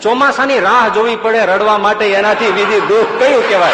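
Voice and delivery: hammed-up pity for the rich. Real, not acted. Preacher mock-laments rich man's grief.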